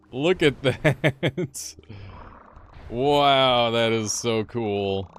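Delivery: slow, high, loud amazement; amazed. Real, not acted. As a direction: stretch it out in awe. Amazed by the tech.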